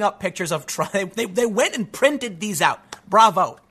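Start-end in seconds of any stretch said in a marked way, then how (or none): 3.1-3.6 a loud, punchy "Bravo.". Real, not acted. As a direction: cheer it out as a one-word salute. Cheering Hong Kong protesters.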